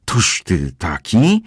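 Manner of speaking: put-on high, slow, offended old woman; indignant outburst. Insulted housekeeper flares up at Kozłowski, high and slow. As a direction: draw it out in outraged disbelief. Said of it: "rozsierdziła się gospodyni".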